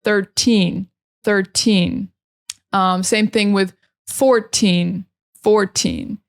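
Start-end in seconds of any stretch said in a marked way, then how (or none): 0.0-2.1 put-on "Thirteen" with a long, clear "teen" at the end; stressed teen ending. Shown as a demonstration. Teacher modelling "Thirteen" for learners, with a clear stressed "teen". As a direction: land hard on "teen" in "Thirteen". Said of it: "you have to really pronounce that een at the end".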